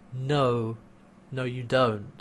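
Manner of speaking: quiet, understated imitated denial; gently knowing, softly acted; soft refusal. Acts Erin's soft, knowing refusal.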